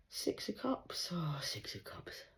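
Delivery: slow, hushed whisper to oneself. Real, not acted. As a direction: whisper the card's name slowly as it turns up. Reading cards to herself.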